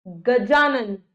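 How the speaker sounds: गजानन with a clearly held jaa; long आ sound. Shown as a demonstration. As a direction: draw out the aa after j in गजानन. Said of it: "आ की ध्वनि आ रही है". (गजानन में जा को लंबा बोलें)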